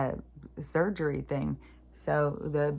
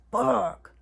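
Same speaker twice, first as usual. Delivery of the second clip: slow, higher, drawn-out groan of frustration; exasperated curse; 7 semitones higher, 5 dB louder than usual. Real, not acted. Venting about thoughts that won't stop, slow exasperated curse. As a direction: drag it out, fed up.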